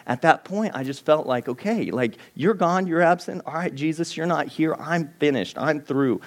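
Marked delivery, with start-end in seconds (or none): 1.5-6.2 frustrated prayer. Retold or imitated. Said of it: "I was just so frustrated".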